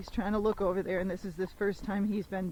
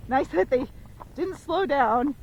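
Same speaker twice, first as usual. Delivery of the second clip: sarcastic annoyance; 5 semitones higher, 5 dB louder, slower than usual. Real, not acted. Car passed without slowing.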